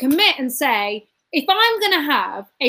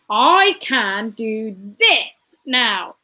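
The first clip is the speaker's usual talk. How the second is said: measured, grounded repetition; calm affirmation; 3 semitones lower than usual. Shown as a demonstration. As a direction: say it like a mantra, calm and low. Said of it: "focus on the now and say".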